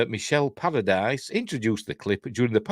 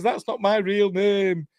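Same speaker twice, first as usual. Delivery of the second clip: character voice; 4 semitones higher than usual. Retold or imitated. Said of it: "And he says".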